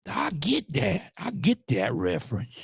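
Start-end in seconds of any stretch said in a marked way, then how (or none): 0.1-1.1 sarcastic drawl. Retold or imitated. Sarcastic reply to the video.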